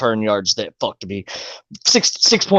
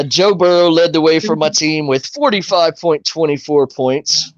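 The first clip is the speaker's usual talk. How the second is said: recap read. Acted. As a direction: read the stats like a sportscaster. Reads the fantasy recap aloud.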